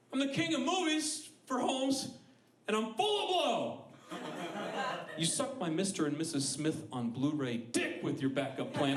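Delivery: high, swaggering coked-up boss; mock arrogant CEO. Blockbuster CEO mocking the question, high swagger. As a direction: sneer like a cocky executive. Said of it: "you think a conversation ever happened".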